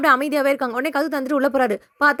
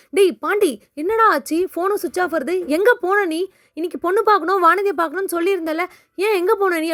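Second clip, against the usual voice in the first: higher-pitched mock interrogation; retold scolding questions; 4 semitones higher than usual. Cheran questions Pandi as he comes home, retold scolding. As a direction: press him with mildly acted, higher-voiced questions.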